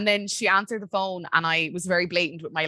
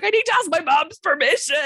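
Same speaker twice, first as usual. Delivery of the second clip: mock panic; 10 semitones higher, 4 dB louder than usual. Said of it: "I was like".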